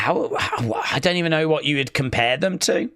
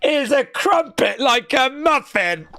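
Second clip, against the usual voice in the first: high, slow, disbelieving read-back; incredulous mocking repeat; 9 semitones higher than usual. Streamer reading viewer's crumpet and muffin question, incredulous repeat. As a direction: repeat the question slowly, pitch up, appalled.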